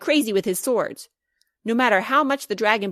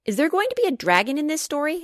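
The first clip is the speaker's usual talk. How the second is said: eager question; 8 semitones higher, faster than usual. Acted. Eager child asks about dragon.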